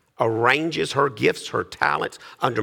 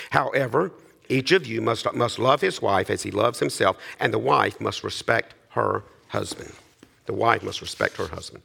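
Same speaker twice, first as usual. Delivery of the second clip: measured, lower-pitched reading aloud; formal Bible reading voice; scripture reading; 4 semitones lower than usual. Acted. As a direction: read the passage solemnly to the congregation. Reads Scripture aloud to congregation.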